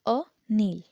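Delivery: अनिल with a short अ at the start; short a in Anil. Shown as a demonstration. Teacher showing students अनिल with a short अ. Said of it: "तो वहाँ पे हम बोलेंगे".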